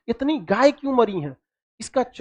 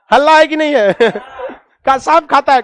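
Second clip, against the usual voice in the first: louder, amused teasing through laughter; laughing; 2 semitones higher, 5 dB louder than usual. Real, not acted. Teacher joking with class about a snake-eating rumour, laughing. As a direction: ask it loudly, breaking into laughs.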